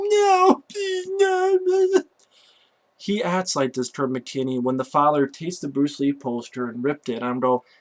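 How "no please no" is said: put-on acted, very high childish scream with drawn-out "no". Acting out a kid whose parent takes his video game back, screaming like a ten-year-old kid. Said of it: "screams like a 10-year-old kid".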